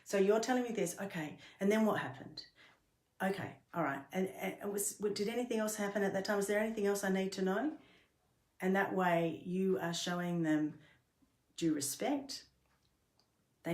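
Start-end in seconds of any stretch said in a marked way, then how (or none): 0.0-7.7 inquiring, pitch lifted on the questions; checking understanding. Shown as a demonstration. Helper checking an upset person's story, attentive and inquiring. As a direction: model a curious listener checking each point. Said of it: "but you can say".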